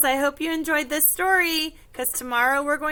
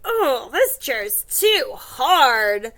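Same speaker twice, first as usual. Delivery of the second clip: complaint; 5 dB louder, slower than usual. Acted. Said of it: "she's like".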